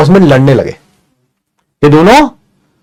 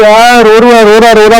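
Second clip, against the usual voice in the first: mock plea; 6 semitones higher, 4 dB louder than usual. Retelling a plea to mother.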